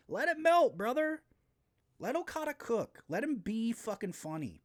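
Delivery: rally the crowd like a hype man; hyped urging. Real, not acted. Host urging fans to enjoy Okada, fired-up cheer.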